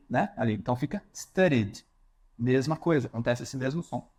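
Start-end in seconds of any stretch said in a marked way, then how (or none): 1.1-1.8 "studied" ending on a voiced D. Shown as a demonstration. Teacher gives study as another example. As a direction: end "studied" on a D. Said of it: "terminamos com o som de D".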